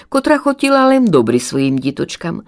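ordinary delivery

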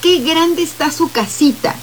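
high, slow, gushing fake praise; feigned delight. Shown as a demonstration. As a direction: gush over it without meaning a word. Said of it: "también me cambia el gesto de la voz". (elogio fingido, agudo y lento)

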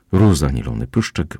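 ordinary delivery

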